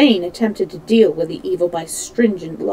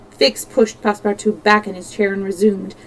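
ordinary delivery

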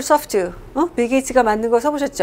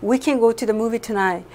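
slow humble request; much slower than usual. Shown as a demonstration. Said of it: "이 정도로 겸손해요".

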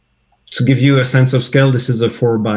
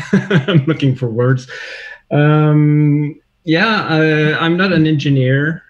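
says it through a laugh; laughing at his own rusty English; 4 semitones higher, slower than usual. Real, not acted. Guest laughing to the host about his English.

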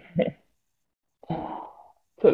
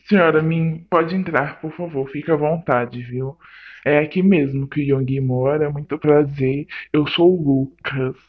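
lower, gentle polite host voice; polite welcome; 4 semitones lower than usual. Acted. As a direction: welcome her politely to make amends. Recebe a sogra educadamente. (recebendo a sogra com voz educada e calma)

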